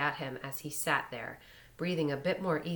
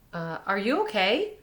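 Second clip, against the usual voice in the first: worried, louder breathless asking; 5 semitones higher, 6 dB louder than usual. A narrator's reading. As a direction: ask again out of breath. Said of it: "asked breathlessly".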